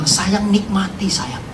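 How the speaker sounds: gentle wife's comfort. Retold or imitated. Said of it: "Istri saya cuma bilang".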